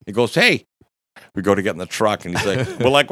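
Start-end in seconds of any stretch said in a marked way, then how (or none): 0.4-0.7 loud, high call after someone. Retold or imitated. Doorman calling after the departing group, calling out. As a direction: shout to stop people leaving.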